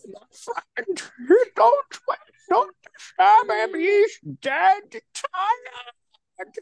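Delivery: put-on very high, drawn-out Austrian accent; hammed-up Austrian action hero, strained and slow; Arnold Schwarzenegger. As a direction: stretch every word in a squeaky mock Austrian accent. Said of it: "let me do my good Schwarzenegger accent".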